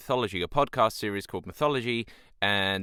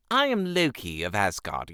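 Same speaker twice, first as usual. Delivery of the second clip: too posh take. Shown as a demonstration. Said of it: "It's not".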